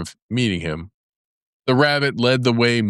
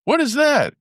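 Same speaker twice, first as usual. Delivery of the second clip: very high, startled question; a frightened badger squeaking out a question; alarmed badger. A narrator's reading.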